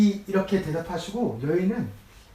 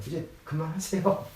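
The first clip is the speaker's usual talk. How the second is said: mock-curt stop it with a rise at the end; curt refusal. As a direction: cut him off, a little testy. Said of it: "그냥 딱 잘린 거예요". (살짝 날 선 말투로 그만하라고)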